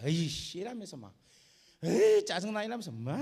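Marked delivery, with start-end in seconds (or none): 0.0-0.6 grumbling camel. Acted. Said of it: "컴플레인 하는 거야". 1.8-2.6 loud fed-up groan of a grumbling camel; annoyed complaint. Acted. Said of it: "짜증내면서 그래 갔어요".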